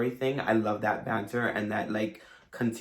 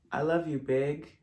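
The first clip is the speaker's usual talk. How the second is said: put-on higher, tender child line; quoting the boy; 4 semitones higher than usual. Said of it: "Manny turns to her and says".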